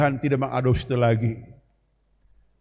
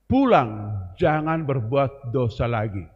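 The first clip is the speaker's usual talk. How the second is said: slow solemn reading; 3 semitones lower, slower than usual. Shown as a demonstration. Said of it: "kalimat kedua yang lebih hebat lagi".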